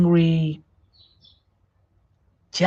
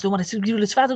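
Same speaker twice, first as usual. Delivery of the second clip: higher, garbled rapid-fire imitation; rushed speech; 4 semitones higher, 3 dB quieter, much faster than usual. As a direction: race through it, swallowing the words. Mimics anxious people rushing their words.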